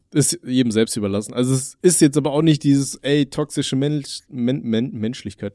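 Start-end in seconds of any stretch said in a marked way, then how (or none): 3.3-5.5 stumbling over a word. Real, not acted. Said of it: "toxische Menschlichkeit ist auch ein geiler Begriff".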